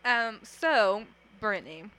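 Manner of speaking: talking while chewing gum; words around a wad of gum. Real, not acted. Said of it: "I'm sorry if I'm, like, smacking my gum".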